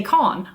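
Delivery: "con." said with a broad British o; imitating a narrator's British "con."; mock British "can". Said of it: "the narrator for Grace seems to believe that in British English you say".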